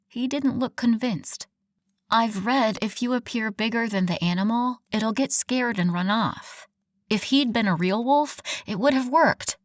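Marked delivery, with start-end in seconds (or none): 2.1-9.6 defiant. Acted. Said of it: "I informed him defiantly".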